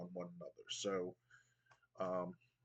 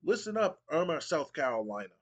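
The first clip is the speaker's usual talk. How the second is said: loud, higher wrestling-promo call to the crowd; hyped Matt Hardy; 3 semitones higher, 5 dB louder than usual. Acted. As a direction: fire up the arena. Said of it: "Matt Hardy goes".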